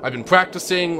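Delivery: lightly voiced smug villain keen to monologue; a hint of a gleeful bad guy; eager villain. Villain begging the hero to hear his monologue, lightly smug.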